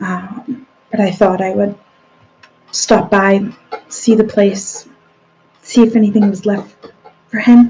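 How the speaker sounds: nervous, uneasy delivery. Emily, having shuffled up to the bar, speaks to the person there, nervous. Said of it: "enter kind of like nervously".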